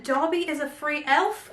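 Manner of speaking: lightly hammed-up British accent; put-on British accent. Vlogger reading the sock slogan, put-on British accent. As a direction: say it in character with a touch of British. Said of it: "doing this accent".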